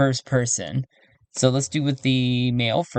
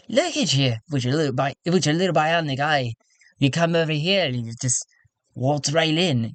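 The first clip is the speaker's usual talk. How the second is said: tactless councilman. Acted. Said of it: "He's like".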